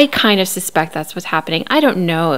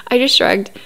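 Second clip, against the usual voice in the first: imitating Cody; 5 semitones higher than usual. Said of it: "he's demonstrating".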